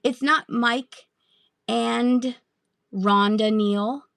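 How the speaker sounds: each word drawn out slowly; slow careful reading. Shown as a demonstration. Seller rereading a buyer's name, slow and careful. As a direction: spell out Mike and Rhonda Neal slowly to get it right. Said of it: "It's Mike".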